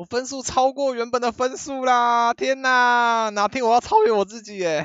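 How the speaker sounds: high, loud, thrilled shout.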